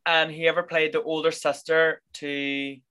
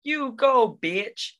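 higher cheer for the character; a delighted shout of support; 8 semitones higher, much slower than usual. Retold or imitated. Cheering on Dana.

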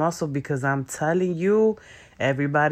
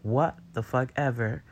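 1 dismissive shrug; 4 dB quieter than usual. Retold or imitated. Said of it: "you could just be like".

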